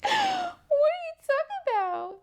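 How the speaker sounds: very high, slow, squealing through laughter; laughing squeal. Real, not acted. Reader repeats the question, breaking into high laughter. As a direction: let it crack into a laughing shriek.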